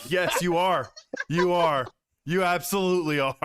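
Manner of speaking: loud playful gloating. Real, not acted. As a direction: rub it in loudly. Gloating at a friend.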